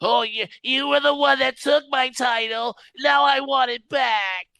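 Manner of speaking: a light mock Russian accent as Gunther. To the co-hosts, voicing Gunther in a light mock Russian accent. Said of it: "I know it's a Russian accent".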